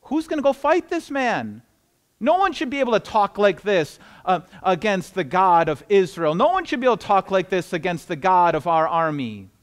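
understated righteous anger; angry. Acted. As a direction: voice a touch of outrage, leaning on the words. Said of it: "David got angry".

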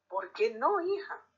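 hija jumps up high in a sharp rising question; a mother caught off guard, voice leaping on hija; surprised. Acted. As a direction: una madre sorprendida, hija con subida aguda. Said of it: "la mira sorprendida".

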